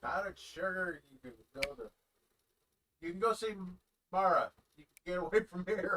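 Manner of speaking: half-joking yell at the blizzard; mock yell. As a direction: yell it like a silly threat to the snow. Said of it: "So yell about powdered sugar".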